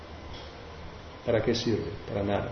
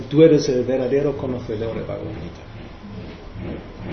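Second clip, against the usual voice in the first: tender praise; slower than usual. Retold or imitated. Chaitanya embracing the weeping brahmana, slow tender praise.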